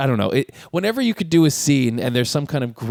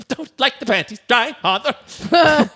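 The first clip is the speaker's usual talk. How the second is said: laughing through a slow mocking echo; cracking up while slowly repeating the line; laughing quote; 10 semitones higher, slower than usual. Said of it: "He's like".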